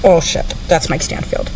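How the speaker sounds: breathy whisper, under her breath; whispered aside. Retold or imitated. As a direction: hiss it to yourself in alarm. Spotting Mike in the hotel.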